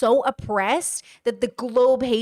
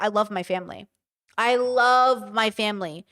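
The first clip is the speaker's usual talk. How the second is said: 1 forced calm; 2 semitones lower than usual. Pretend. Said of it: "I'm just like".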